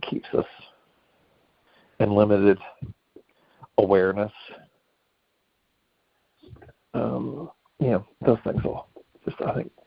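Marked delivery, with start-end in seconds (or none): 3.8-9.7 talking while chewing gum; words round a wad of gum. Real, not acted. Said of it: "Oh, gum, I gotta get rid of this gum".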